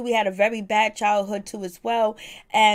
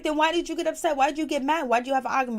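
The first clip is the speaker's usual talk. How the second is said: higher-pitched mock interrogation; retold questioning; 5 semitones higher, much faster than usual. Miss V challenges him on getting mad, retold questioning. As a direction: press him with rapid-fire whys, pitched up.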